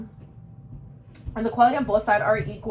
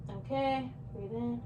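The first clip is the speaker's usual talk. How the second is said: quiet breathing prompts; 11 dB quieter than usual. Real, not acted. Quiet prompts while using stethoscope.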